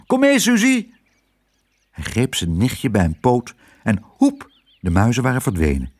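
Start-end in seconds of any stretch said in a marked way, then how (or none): 0.1-0.9 high, squeaky, excited summons; thrilled little mouse voice; jubilant. A narrator's reading. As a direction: urge her along in delight. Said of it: "juichte Lodewijk".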